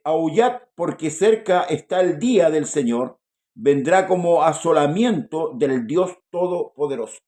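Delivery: slow, declaimed prophetic verse; scripture reading. Acted. Reader warns church that the day is near, scripture reading. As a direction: read it out slowly and firmly to the congregation.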